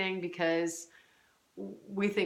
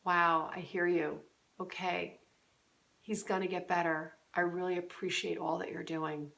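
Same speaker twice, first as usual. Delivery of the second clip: soft, gentle supportive husband; quiet, sincere words to a tired wife; tender reassurance; 3 dB quieter than usual. Shown as a demonstration. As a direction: comfort her quietly. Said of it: "say things like this".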